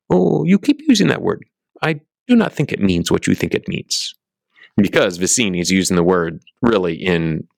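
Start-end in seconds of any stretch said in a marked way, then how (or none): 0.1-4.1 high-pitched opening, imitated movie swordsman; Inigo Montoya. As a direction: quote the Spaniard swordsman, starting way up high. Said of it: "Inigo Montoya, who's the great Spaniard swordsman, he goes".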